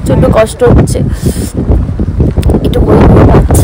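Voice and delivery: breathless in thin mountain air; gasping between words, short of breath. Real, not acted. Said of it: "আমি নিঃশ্বাস নিতে পারছি না". (হাঁপাতে হাঁপাতে, শ্বাসকষ্টে)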